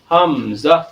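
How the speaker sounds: حمزہ کہنا، زور سے آخر میں اٹھا کر; hamza. Shown as a demonstration. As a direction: say حمزہ as hamza with a glottal start. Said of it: "اس کو ہم پڑھیں گے". (حمزہ کا درست تلفظ)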